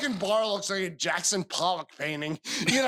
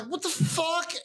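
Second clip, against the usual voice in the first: shocked shout; 10 semitones higher, slower than usual. Retold or imitated. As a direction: yell it in alarm. Confronting the fire.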